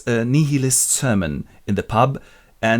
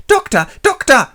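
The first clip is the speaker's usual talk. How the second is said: much higher, louder plaintive calls; high whiny captain; 6 dB louder than usual. Retold or imitated. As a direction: whine for help. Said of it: "captain in the street".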